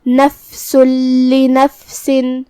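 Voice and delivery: نفس لنفسن with the noon merged into the لام, doubled, no nasal hum; slow tajweed demo of a merge without nasal hum; idgham without ghunna. Shown as a demonstration. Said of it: "یہ حکم کو ادا کریں گے".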